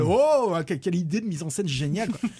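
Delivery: sarcastic gush of wonder; mock admiration. Critic mocking a clumsy camera tilt, sarcastic awe.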